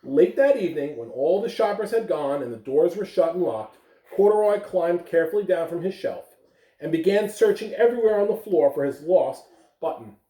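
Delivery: gentle read-aloud storytelling voice; lively picture-book reading; reading to children. Acted. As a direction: read it like story time for little ones. Teacher reads picture book aloud.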